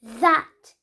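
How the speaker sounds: "That" with tongue between the teeth; correct version. Shown as a demonstration. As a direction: model "That" properly. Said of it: "'Cause that is a dithon".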